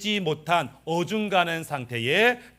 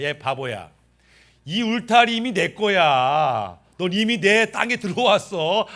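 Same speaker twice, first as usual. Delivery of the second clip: Satan; 3 semitones higher, 4 dB louder than usual. Acted. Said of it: "마귀가 씩 웃어요".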